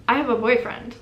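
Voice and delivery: firm, assertive reply. Retold or imitated. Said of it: "more confidently that time".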